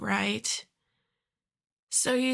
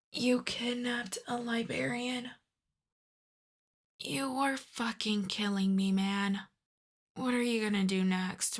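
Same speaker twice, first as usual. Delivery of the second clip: softer, held-in disbelief; appalled exasperation; 5 dB quieter than usual. Acted. Boss learning Giacomo kidnapped a librarian, quietly appalled. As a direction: berate the henchman without raising your voice. Appalled aside at henchman's blunder.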